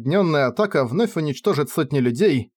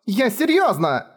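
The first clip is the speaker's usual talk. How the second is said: much higher, slow sobbing cry; bursting into tears; 9 semitones higher, slower than usual. Acted. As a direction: break down crying. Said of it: "разрыдалась она". (Кефар разрыдалась)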